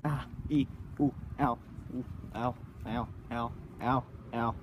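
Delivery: wincing ow ow; pained, quiet yelps; pained groans. Real, not acted. Walking barefoot on stones.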